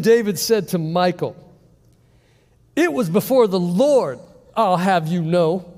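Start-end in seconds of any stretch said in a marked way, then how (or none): 2.7-5.7 defiant king. Acted. David answering Michal, laughing defiantly.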